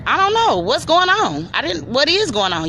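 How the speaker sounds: high, innocent feigned confusion; fake-innocent to fool the caseworker; playing dumb. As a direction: act like you know nothing. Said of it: "I'm playing this bitch like she dumb".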